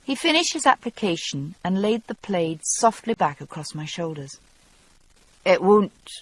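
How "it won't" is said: gruff. Acted. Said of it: "He spoke gruffly".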